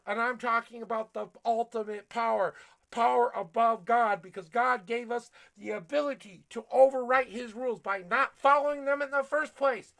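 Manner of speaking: loud, driving sermon voice; fired-up preacher; preaching yell. Acted. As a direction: keep hammering it home. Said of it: "I'm gonna yell at you".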